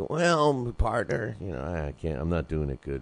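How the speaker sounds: lightly drawled cowboy sidekick voice; a hint of an old Western partner; old Western character. Podcast host imitating a Western movie sidekick, lightly drawled. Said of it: "he always used to talk like this".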